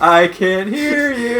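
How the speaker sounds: drill sergeant. Acted. Demanding a louder answer.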